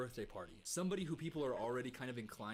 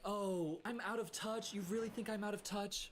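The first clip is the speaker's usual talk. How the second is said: higher, sarcastic imitation; higher mock of her offended reply; mocking impression; 7 semitones higher than usual. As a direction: parrot her indignant question. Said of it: "She's saying that, like".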